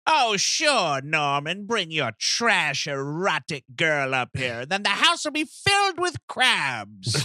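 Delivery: lightly voiced sarcastic old lady; Norma Bates. Mother sarcastically inviting the girl up, lightly scolding old lady. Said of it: "you just hear over the P A".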